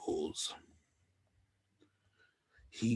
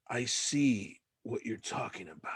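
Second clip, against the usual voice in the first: hushed awed whisper; 2 semitones higher, 5 dB quieter than usual. Acted. Player whispering in awe at the view. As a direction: breathe it out in awe.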